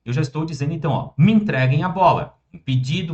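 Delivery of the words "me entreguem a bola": firm command. Shown as a demonstration. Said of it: "uma ordem, né, dependendo da, da entonação".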